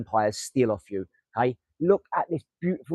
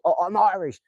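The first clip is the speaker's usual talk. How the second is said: mock proud Irish; 5 semitones higher, 4 dB louder than usual. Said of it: "They're that sort of thinking".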